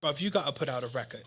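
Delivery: quick imitated English accent. English star urging singer to record, quick English accent. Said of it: "you do a good accent".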